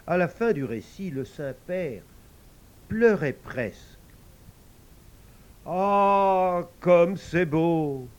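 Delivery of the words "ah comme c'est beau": moved murmur. Acted. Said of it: "murmura-t-il d'une voix émue".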